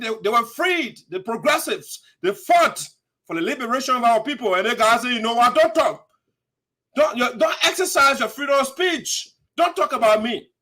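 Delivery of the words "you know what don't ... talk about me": lightly mimicked bossy politician; mock dictator. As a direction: imitate a dictator giving orders, voice raised in places. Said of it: "He's a dictator".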